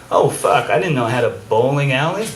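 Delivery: a hint of startled discovery, quick; lightly played amazement at a hidden room; mock surprise. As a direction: homeowner finding a secret bowling alley, mildly surprised. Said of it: "you're like".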